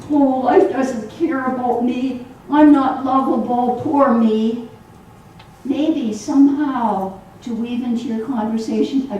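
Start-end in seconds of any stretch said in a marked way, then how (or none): 0.1-4.7 mock self-pitying whine, a bit louder; imitated whining. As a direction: whine it like someone feeling sorry for themselves. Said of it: "somebody is whining in your ear and saying".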